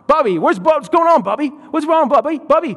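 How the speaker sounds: put-on high, worried toddler voice; a tiny sister fretting over her brother; little girl voice. Toddler sister calling to crying brother, high child voice. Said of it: "she calls Caleb Bubby".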